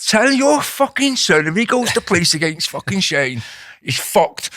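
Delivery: imitating lads threatening someone's mum; retold threat. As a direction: spell out a warning slowly, pitch up. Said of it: "They're threatening her".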